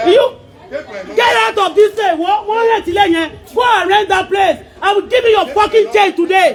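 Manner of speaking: real furious shouting; angry order. Real, not acted. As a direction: order them out forcefully. Ordering tenant out in quarrel.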